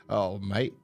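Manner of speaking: badly faked Australian accent; attempted Australian accent. Podcaster mimicking the film villain for co-host, attempted Australian accent. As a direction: have a stab at an Australian accent. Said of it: "he's got an Australian accent".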